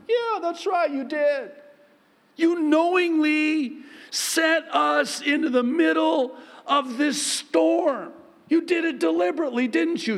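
hammed-up complaint; accusing disciple. Disciple accuses Jesus of sending them into storm, loud and high.

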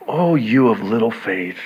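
softly tender rebuke; gentle, loving. Retold or imitated. Pastor imagining Jesus to doubters, gentle loving voice. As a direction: say it as a loving nudge. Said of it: "such a gentle, loving voice".

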